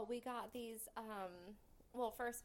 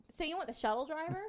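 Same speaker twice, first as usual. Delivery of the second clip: incredulous; 5 semitones higher, 9 dB louder, faster than usual. Retold or imitated. Retold incredulous question.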